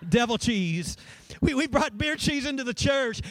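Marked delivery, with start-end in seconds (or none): 1.4-3.2 higher, mock-appalled repeat of the quote; horrified church lady. Pastor repeats the church lady, higher and mock-appalled. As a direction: pitch it up in scandalized disbelief. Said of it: "This lady looked horrified".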